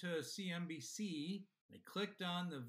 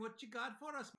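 mock Irish accent; 5 semitones higher than usual. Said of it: "you're making fun of the Irish".

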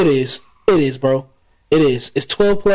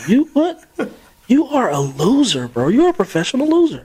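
holding back laughter; 8 semitones higher than usual. Real, not acted. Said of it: "I'm just trying not to laugh".

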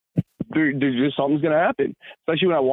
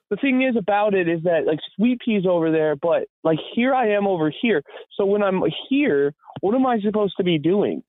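put-on high, puzzled old lady voice; lost and asking for help; confused old lady; 5 semitones higher than usual. Old lady asks the narrator what to do, confused.

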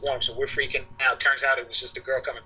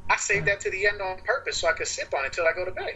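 retold objection, pitched up; higher, insistent self-defense; indignant protest; 6 semitones higher than usual. Protesting that his drink was taken.

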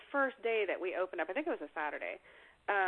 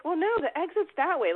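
higher, louder startled protest; taken aback; 9 semitones higher, 7 dB louder than usual. Retold or imitated. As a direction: push back, caught off guard. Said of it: "I was taken aback".

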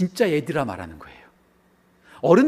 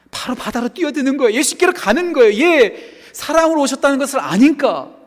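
high, mounting pulpit excitement; excited preaching; 8 semitones higher, 6 dB louder than usual. Real, not acted. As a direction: tell it with urgent fervour. (격앙되어 외치는 설교)

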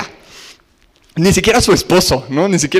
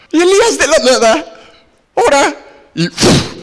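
dramatic build; 8 semitones higher than usual. Acted. Dramatic fire moment.

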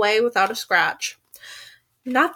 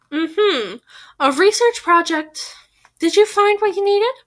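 high, slow, pointed questioning; suspicious; 8 semitones higher, 4 dB louder, slower than usual. Acted. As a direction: draw it out like an accusation. Suspicious cross-examination.

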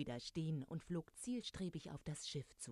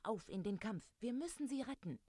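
rally the troops with a lifted voice; rallying call; 6 semitones higher than usual. A narrator's reading. Peter urges the Lost Boys to save Tinkerbell, calling out. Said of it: "rief er".

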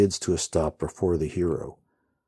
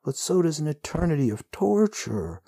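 shouting; 11 semitones higher than usual. A narrator's reading. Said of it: "the hero shouts into the wind".

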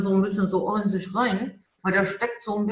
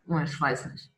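zweifelnde innere Stimme; 6 semitones lower, 4 dB quieter than usual. Pretend. Gut feeling voiced as inner thought.

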